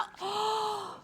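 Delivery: sharp gasp. Real, not acted. Reacting to the wipe.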